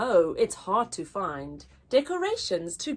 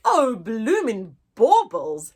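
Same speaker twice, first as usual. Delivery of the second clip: louder exasperated elf exclamation; elf shouting; 7 dB louder than usual. Acted. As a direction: cry it out in mock dismay. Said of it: "shouted Ed".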